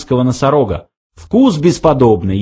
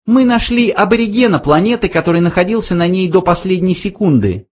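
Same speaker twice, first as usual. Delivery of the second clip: high little mouse voice; explaining mouse; 9 semitones higher, faster than usual. A narrator's reading. Mouse explains their find, high mouse voice.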